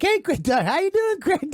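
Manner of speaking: high-pitched mock eager greeting; imitating excited caller. Fooled caller greeting who he thinks is Craig, excited imitation.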